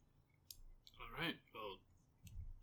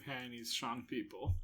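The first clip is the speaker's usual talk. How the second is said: half-hearted pretend shout to a crowd; mock scream; 6 dB louder than usual. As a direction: call it out, only somewhat louder. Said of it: "I'm gonna scream".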